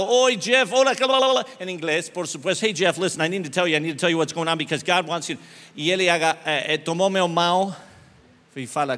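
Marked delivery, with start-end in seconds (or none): 0.1-1.4 desperate rush. Retold or imitated. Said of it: "Eu estava desesperado". 2.6-5.4 words run into one; fast-talking English, blurted out at a hospital bedside. Retold or imitated. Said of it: "comecei a falar como carioca".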